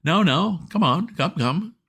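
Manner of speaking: mock a butler calming an earthquake; mocking Jeeves soothing. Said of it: "lifted up your finger and said".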